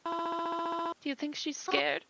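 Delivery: a mother on the edge of crying; slow, tearful mother. Acted. Bereaved mother asks the stranger about her daughter, slow and tearful.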